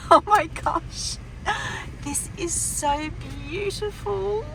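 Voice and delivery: high, delighted squealing with laughter; thrilled squeal. Real, not acted. To husband David on arriving at their new home, high delighted squeals. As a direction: burst out with real joy at finally being home.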